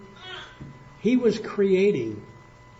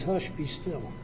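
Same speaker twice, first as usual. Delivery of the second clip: hushed command; 8 dB quieter, slower than usual. Retold or imitated. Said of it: "and he just says".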